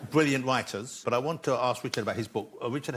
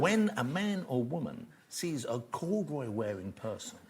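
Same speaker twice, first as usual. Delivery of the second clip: mock gravitas; 5 dB quieter than usual. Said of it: "to give this some gravitas".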